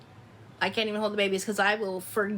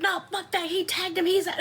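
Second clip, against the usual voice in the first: higher retold protest at the ump; mock outburst; 8 semitones higher than usual. Mom arguing with the umpire, mock angry outburst. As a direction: relive fighting the call, half-laughing. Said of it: "I was like".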